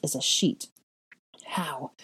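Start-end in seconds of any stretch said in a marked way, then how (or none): 1.4-1.9 slow, loud outrage after a faltering start; stammer, then explode on DARE; scandalized fury, drawn out; seething. A narrator's reading. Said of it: "she seethed".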